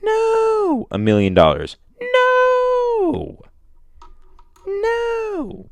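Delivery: very high, loud screaming refusal; refusing a death trap, screaming very high. Pretend. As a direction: scream it out in a panic. Refusing to dig through organs.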